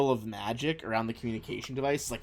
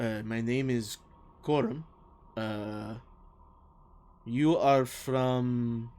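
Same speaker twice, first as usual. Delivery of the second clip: lightly voiced radio official with halting accent; a hint of a newcomer's accented voice; Quorum; slower than usual. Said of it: "a bit of a deeper voice".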